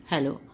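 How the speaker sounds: हेलो kept short, not stretched, falling end; short pronunciation. Shown as a demonstration. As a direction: clip हेलो quick and short. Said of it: "बहुत छोटी pronunciation है". (हेलो छोटा बोलें, खींचें नहीं)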